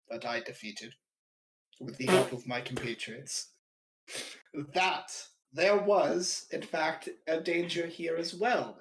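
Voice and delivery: grand heroic proclamation; heroic announcement. Acted. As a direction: speak as the arriving hero. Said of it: "Your heroes have arrived" energy".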